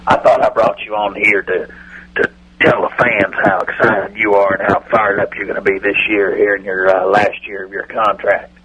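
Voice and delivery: a hint of the Cowboys owner on a bad phone line; Jerry Jones impression. Radio bit, owner greeting the hosts, light folksy impression. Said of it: "let's welcome Jerry Jones".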